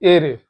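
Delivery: ए रे said as eh-reh; letter R in Spanish, ए रे. Shown as a demonstration. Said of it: "आर का होगा".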